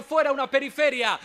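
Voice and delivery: loud, proud rallying cry; defiant shout. Real, not acted. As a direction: raise the voice in defiance. Defiant climax of political speech.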